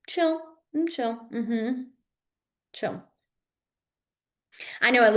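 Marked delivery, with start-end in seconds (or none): 0.1-3.0 relaxed sing-song chill fading to a whisper; easygoing chill, trailing off; laid-back chill. Shown as a demonstration. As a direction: act totally unbothered. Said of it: "chill move kinda attitude".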